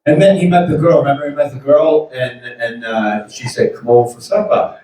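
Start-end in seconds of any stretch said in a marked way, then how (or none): 3.8-4.8 supper as "suppa", New England style; New England accent. Retold or imitated. Comedian quoting the movie girl in his own New England accent. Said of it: "that's how it comes out".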